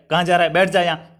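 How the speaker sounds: curt order, lightly acted irritation; mild mock anger. Shown as a demonstration. Teacher imitating someone angrily ordering you to sit, mildly cross. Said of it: "किसी ने क्रोध में आकर".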